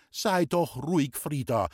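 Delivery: calm the aunt down gently; soothing mother. A narrator's reading. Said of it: "hat meine Mutter gesagt". (beschwichtigend, langsam gesprochen)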